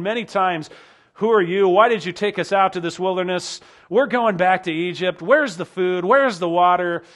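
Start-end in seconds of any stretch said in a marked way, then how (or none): 1.2-7.0 crowd complaining. Acted.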